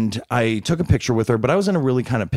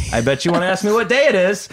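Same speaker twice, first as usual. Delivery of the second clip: mock knowing tease; 6 semitones higher than usual. Actor teasing a fan about October third, playful and higher. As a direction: tease the fan like you've heard it all.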